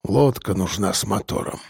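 put-on low, dull old hunter's voice; a low, muted old man; глухо, низким голосом старика; muffled old man. A narrator's reading. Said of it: "глухо проговорил старик".

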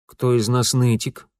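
usual speaking voice

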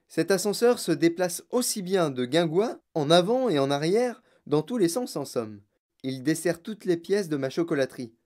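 lightly voiced showman inventor, proud. Inventor tells visitors how his lift goes everywhere, proudly. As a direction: show off your marvellous machine.

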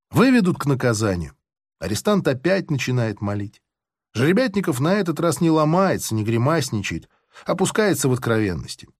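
plain reading voice

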